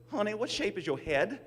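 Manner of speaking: put-on high, sweet Southern accent, pitched well up; mimicking a Southern clerk's "Honey". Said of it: "in her heavy Southern accent".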